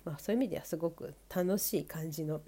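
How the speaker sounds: blocked nose from a cold; nasal voice. Real, not acted. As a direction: speak with a stuffy, nasal nose. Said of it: "この鼻声です".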